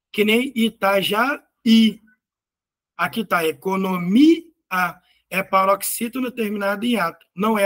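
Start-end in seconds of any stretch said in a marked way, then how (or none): 0.6-2.0 "Itajaí" slowly, with the last "í" set apart and stressed; stress on final í. Shown as a demonstration. Teacher giving an accented hiatus example, "Itajaí" stressed on final "í". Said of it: "na sílaba mais forte". 3.5-4.4 "economia" with "mi" held and rising, then a detached "a"; stress on mi. Shown as a demonstration. Teacher locating the hiatus, "economia" with "mi" stretched out. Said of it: "na sílaba mais forte".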